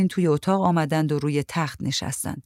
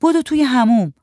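urgent loud shout, pitched up; 7 semitones higher, 6 dB louder than usual. A narrator's reading. Aunt shouts at the sick man to run to the bathroom. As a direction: yell it fast and urgent. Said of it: "شهرزاد داد زد".

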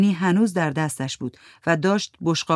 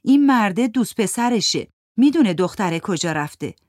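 put-on girl telling tales; 4 semitones higher, 4 dB louder than usual. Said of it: "یکی از دخترها ... گفت".

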